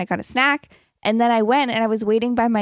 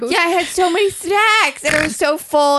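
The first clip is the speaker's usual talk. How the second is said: real laughing exasperation; 6 semitones higher than usual. Real, not acted. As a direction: exclaim it through laughter. Laughing at snacks.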